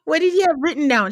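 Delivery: high, loud laughing disbelief; incredulous. Acted. Mock shock at the hidden note.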